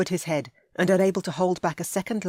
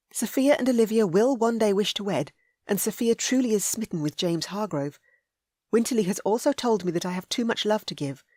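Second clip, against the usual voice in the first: put-on higher, heartfelt young woman; earnest young lady; 3 semitones higher than usual. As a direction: plead your case earnestly.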